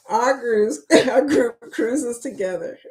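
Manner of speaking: stumble, restart and let a giggle escape; suppressed laughter round the words; failing straight face. Real, not acted. Host retrying the group cruise intro for viewers, barely holding back laughter. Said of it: "I can't even say it with a straight face".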